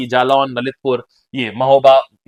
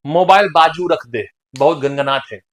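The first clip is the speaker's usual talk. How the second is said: Bundeli dialect; 3 semitones lower than usual. Shown as a demonstration. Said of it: "This is all Bundeli भाषा". (धीमे बुंदेली लहजे में)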